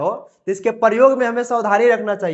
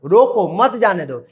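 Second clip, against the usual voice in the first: slow रोको, brief break, मत जाने दो; pause after रोको; slower than usual. Shown as a demonstration. Teacher repeating the first meaning, pause after रोको. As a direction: separate रोको from a joined मत जाने दो. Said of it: "तो यहां पर बोलेंगे".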